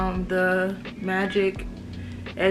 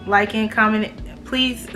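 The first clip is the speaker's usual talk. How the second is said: slight lisp from braces; lisping through new braces; talking with braces. Real, not acted. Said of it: "these braces make me talk with a lisp".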